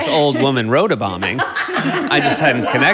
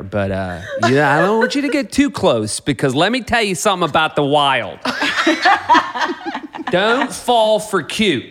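put-on light Pittsburgh accent as a tour-guide dad; 2 semitones higher than usual. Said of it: "Pittsburgh accent".

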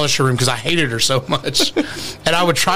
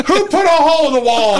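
high mock-furious dad yell; hammed-up shouted demand; imitated angry dad; 9 semitones higher than usual. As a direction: holler it like a father finding damage. Imitating angry dad finding the hole.

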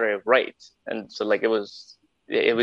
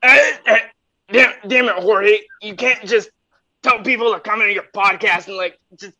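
put-on squeaky voice; 10 semitones higher, 5 dB louder than usual.

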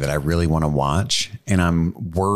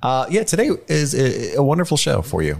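pleasant host voice; 4 semitones higher than usual. Acted. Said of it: "You said that so pleasantly".

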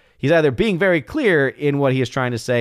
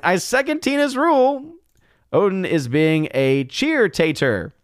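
high mock voice; 7 semitones higher than usual. Reading Laura's chat in high voice.

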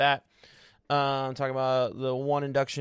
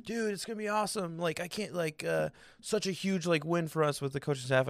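higher, softer mock excitement; super pumped, imitated; 5 semitones higher, 6 dB quieter than usual. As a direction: imitate a friend gushing over news. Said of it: "he's, like, super pumped about it".

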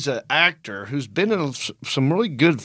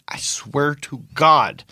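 slow, half-whispered vow; slow right down and swear it earnestly; drawn-out, confiding emphasis; hushed oath; much slower than usual. Real, not acted. Stressing an unbelievable detail.

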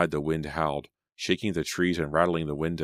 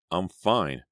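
impatient. Acted. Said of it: "Selena said impatiently".

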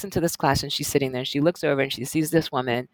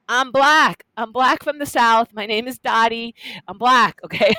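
loud, higher, emphatic declaration; insistent; 7 semitones higher, 6 dB louder than usual. Retold or imitated. Dottie insists to the mother, loud and emphatic. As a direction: plant your feet and insist. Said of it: "she's like".

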